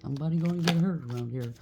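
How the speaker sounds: quick, badly done comedian's accent; Russell Peters. Quoting a comedian's saying for listeners, badly faked accent. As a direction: attempt the catchphrase accent and miss it. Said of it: "I can't do the accent".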